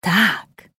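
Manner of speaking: a hissed, menacing yes. A narrator's reading. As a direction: hiss it like a monster. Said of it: "syknęła wstrętna postać". (syknięcie, złowrogie)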